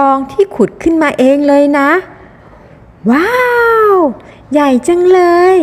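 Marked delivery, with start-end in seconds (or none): 3.1-5.6 high, rising wow; amazed. Acted. Visitor sees a huge gold necklace, amazed. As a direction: marvel in a higher, impressed voice.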